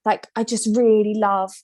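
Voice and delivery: light Welsh lilt quoting Paige; Welsh accent. Retold or imitated. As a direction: imitate her Welsh accent. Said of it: "how good that accent was".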